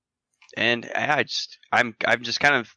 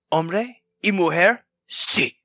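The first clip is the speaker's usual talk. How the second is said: higher, slower mock lady correcting; imitating the Mexican lady; 6 semitones higher, slower than usual. Mimicking the customer who corrects his Spanish, lightly higher. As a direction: correct him like a stern customer. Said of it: "She goes".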